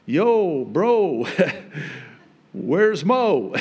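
hammed-up buddy talk with a laugh; jokey slangy Israelites. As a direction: call out playfully, amused at yourself. Jokey impression of Israelites to Aaron.

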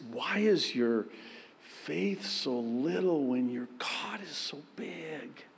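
soft unvoiced whisper of love; tender whisper. Jesus whispers tenderly to doubting Peter, soft whisper. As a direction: breathe it gently. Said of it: "No, I think it was a, just".

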